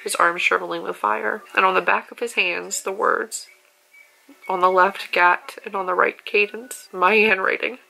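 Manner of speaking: choked up while reading the book's last pages; reading a heartbreaking ending while crying; tearful reading. Real, not acted. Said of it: "read some stuff out of here while I was bawling".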